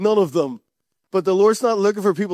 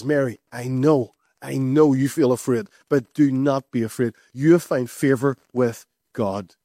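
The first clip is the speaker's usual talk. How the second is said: lower, tender voice of the angel; a low, kindly heavenly messenger; gentle angel; 5 semitones lower than usual. Acted.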